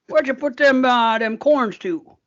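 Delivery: drawn-out imitation Southern accent; mock Southern accent. Host likens Newfoundland phrasing to the South, mock Southern accent. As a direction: do a Southern accent, stretching the last words. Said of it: "you hear in the South out here".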